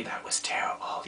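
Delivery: voiceless whisper; whispered aside. Real, not acted. A wrestling fan's grumble, whispered. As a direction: mutter it under your breath.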